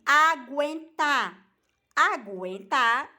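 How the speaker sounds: AGUENTAR said slowly, with the U sounded after the G; U pronounced. Shown as a demonstration. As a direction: draw out "aguentar" and let the U be heard as gw. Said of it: "o U entra no, no meio da palavra".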